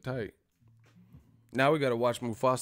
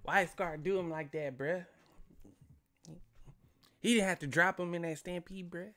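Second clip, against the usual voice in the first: hood dude; 6 semitones higher, 7 dB quieter than usual. Retold or imitated. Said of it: "They was like".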